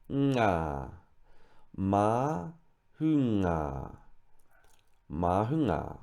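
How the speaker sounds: mahunga split ma, hu, nga, then joined slowly; syllable by syllable. Shown as a demonstration. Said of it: "you can break that down".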